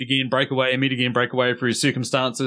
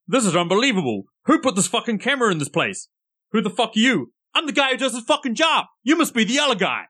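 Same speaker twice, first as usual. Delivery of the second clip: put-on higher, heated Boston accent rant; 8 semitones higher than usual. Co-host quotes a backup one-liner, indignant Boston accent. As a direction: rattle off the angry film line in a Boston accent. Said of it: "in your best Boston accent".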